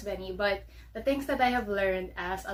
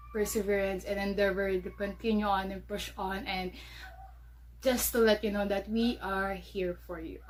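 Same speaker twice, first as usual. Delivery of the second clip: out of breath. Real, not acted. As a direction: talk while catching breath. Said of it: "I was a bit out of breath".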